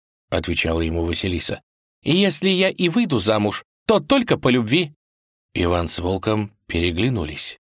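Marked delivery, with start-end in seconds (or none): 2.0-4.9 девичий голос выше; упрямая дочь отказывает отцу; капризная царевна. Acted. Василиса спорит с отцом. (царевна отказывает отцу, высоким голосом)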